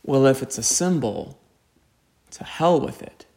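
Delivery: soft, trembling, near whisper; shaky voice. Retold or imitated. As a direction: let the words tremble, hushed. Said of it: "said in a very shaky voice".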